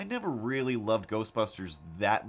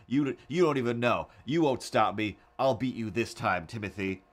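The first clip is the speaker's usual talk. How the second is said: mock angry; 3 dB louder than usual. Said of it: "angrily like".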